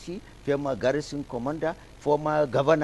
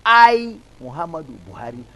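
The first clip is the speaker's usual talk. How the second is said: mock oath-taking; 3 semitones higher, 9 dB louder than usual. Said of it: "they were swearing in President Buhari".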